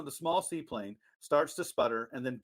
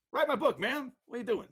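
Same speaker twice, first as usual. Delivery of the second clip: mock villain voice; 9 semitones higher than usual. Mocking the villain's ending.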